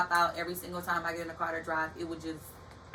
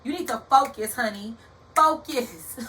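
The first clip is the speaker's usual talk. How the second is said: firm self-scolding that builds louder to a near shout on Focus; self pep talk; 5 dB louder than usual. Retold or imitated. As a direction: push yourself to focus, getting louder. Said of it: "I'm like".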